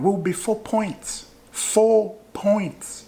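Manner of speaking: excited. Real, not acted. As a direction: savour the thought, gleeful. Gloating about league table.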